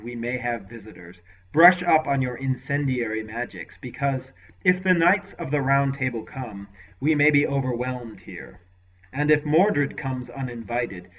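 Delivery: a hint of a cold commanding lord; lightly voiced ruthless lord; lord's voice. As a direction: lord questioning his sorcerer, lightly voiced. Lord gives orders.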